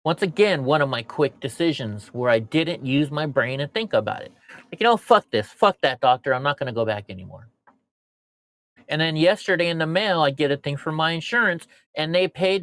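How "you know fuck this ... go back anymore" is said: angry rant. Retold or imitated. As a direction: burst out angrily then hurry. Retold angry inner rant.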